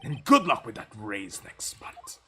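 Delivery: whispered sarcastic aside; snide whisper. Acted. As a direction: breathe the jab out under your breath. Snide aside after dismissing cop.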